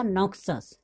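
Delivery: "नोक्सस" said with ks in the middle; pronunciation demo. Shown as a demonstration. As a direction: read out "नोक्सस" as NOK-sus. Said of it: "तो यहाँ पे हो गया".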